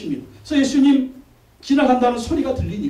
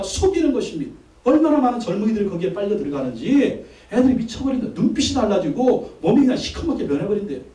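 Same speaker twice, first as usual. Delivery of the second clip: heated pulpit warning; forceful preaching; 2 semitones higher than usual. Real, not acted. Pastor warns congregation about Shincheonji, forceful preaching. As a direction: preach insistently against deception.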